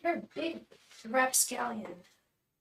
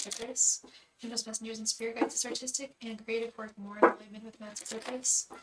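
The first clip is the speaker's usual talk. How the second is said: repeated invocation. Real, not acted. Repeats question as tarot invocation.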